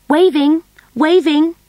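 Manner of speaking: high, loud excited cry; excited exclaim. A narrator's reading. Little Rose rushing to wave goodbye, excited cry. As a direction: squeal it with glee. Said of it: "exclaimed Rose".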